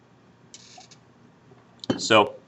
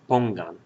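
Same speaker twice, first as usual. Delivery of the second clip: "pongan" stressed on PON, then falling away; stress on first syllable. Shown as a demonstration. Teacher showing learners the stressed syllable, first syllable stressed. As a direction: lean on the PON of "pongan", let the ending drop. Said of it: "the stress in that word is on that syllable".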